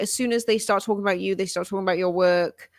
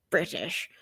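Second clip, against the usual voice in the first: whispered aside; 3 semitones lower, 5 dB quieter than usual. Pretend. Joking aside about faked accent.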